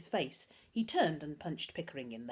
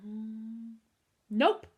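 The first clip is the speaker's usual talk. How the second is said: mean grin; 4 semitones higher than usual. A narrator's reading. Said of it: "Humphrey grinned meanly".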